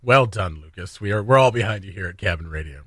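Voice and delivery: dutiful, unconvinced well-wishing; unconvincing support. Real, not acted. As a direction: offer praise you don't really back. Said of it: "You don't sound like you're behind Lucas".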